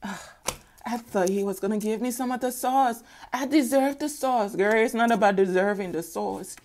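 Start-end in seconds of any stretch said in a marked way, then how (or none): 0.0-4.6 sighing, slightly higher pouty voice; mock-disappointed pout; sulking Karen impression. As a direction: sigh and sulk like you were passed over. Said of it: "then Karen's like".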